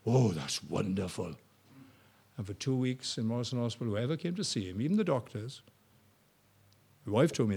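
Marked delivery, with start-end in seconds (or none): 0.1-1.4 slow, soft, lower wonder; quietly moved. Retold or imitated. Dying man answering the preacher, softly moved. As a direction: breathe it out, touched. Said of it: "He said".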